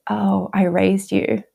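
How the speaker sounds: slow, all-knowing motherly claim; slow Oprah reply, full of knowing; knowing, self-assured. Retold or imitated. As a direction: state it slowly, as if it's a known fact. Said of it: "in that full knowing".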